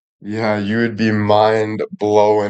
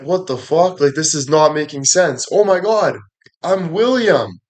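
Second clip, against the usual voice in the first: much higher, panicky disbelief climbing up; shocked realization; 6 semitones higher than usual. Retold or imitated. Discovering in the mirror he became William, higher freaked-out voice. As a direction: hit a squeaky high as it dawns on you. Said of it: "You're like".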